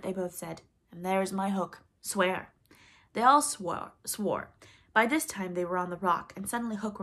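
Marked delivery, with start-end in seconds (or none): 0.9-2.5 solemn oath. Acted. Hook swears oath.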